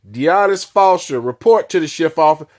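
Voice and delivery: page a name over the speaker; imitating a prison loudspeaker summons; intercom call.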